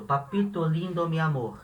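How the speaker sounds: Spanish papito lindo, mi amor, said softly; Spanish endearment. Shown as a demonstration. Teacher modelling a daughter's Spanish endearment, soft. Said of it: "Em espanhol vai ser papito".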